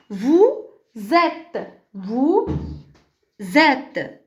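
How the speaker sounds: "vous êtes" in slow pieces, z carried onto "êtes"; liaison marked. Shown as a demonstration. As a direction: model "vous êtes" for pupils, z liaison clear. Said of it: "il faut marquer la liaison".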